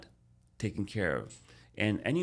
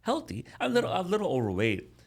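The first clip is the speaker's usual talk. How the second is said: emphatic; 10 semitones higher, 3 dB louder than usual. Real, not acted. Stressing he was healthy.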